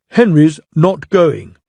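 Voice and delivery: slow, rude engine retort; a touch of rudeness. Acted. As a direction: sneer it at the boss. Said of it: "said Gordon rudely".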